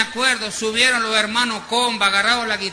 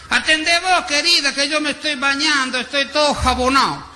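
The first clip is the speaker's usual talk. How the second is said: husband from the shower; 5 semitones higher than usual. Retold or imitated. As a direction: holler it through the bathroom door, all soaped up.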